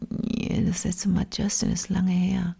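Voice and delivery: soft unvoiced whisper. Real, not acted. Telling her friend about a singer's last concert, whispered. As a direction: hush it as if confiding.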